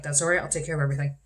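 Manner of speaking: talking with a dry mouth; sticky, parched mouth while speaking. Real, not acted. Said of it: "I have a dry mouth".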